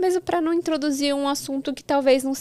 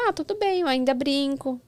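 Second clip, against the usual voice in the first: lightly voiced kid, pitched higher; a hint of a carefree kid brushing it off; imitating a child; 4 semitones higher than usual. Mother retelling how a child brushed off growing up, a lightly voiced kid, higher.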